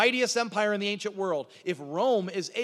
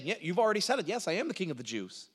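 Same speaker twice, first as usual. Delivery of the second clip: lightly ironic reply, dropping softer at the end; playing along ironically; 4 dB quieter, faster than usual. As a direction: play along with the absurdity, mildly sarcastic. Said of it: "He's playing into the irony".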